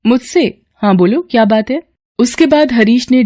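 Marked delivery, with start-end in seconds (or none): 0.1-1.8 higher voice, hurried and casual; a daughter rushing out the door; young woman Kamya. Acted. Kamya replies to Harish. (ऊँची आवाज़ में जल्दी-जल्दी, बेटी का अंदाज़)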